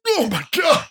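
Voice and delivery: very high strained exclamation; mock horror. Kid hit by locker-room perfume, mock horror. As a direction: act overwhelmed by a smell, voice shooting up. Reacting to perfume stench, retold.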